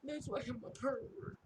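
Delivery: high-pitched whiny mock sob; mock crying. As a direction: imitate a tearful wail, hammed up. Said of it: "like, crying and like".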